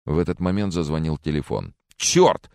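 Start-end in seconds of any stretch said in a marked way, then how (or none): 2.0-2.5 high-pitched cry of exasperation; anguished howl. A narrator's reading. Francis curses as the phone rings, howling. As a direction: yelp the curse in a sudden high wail. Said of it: "взвыл Фрэнсис".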